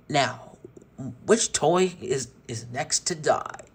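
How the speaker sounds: menacing villain. Acted. Villain Tex threatening toys.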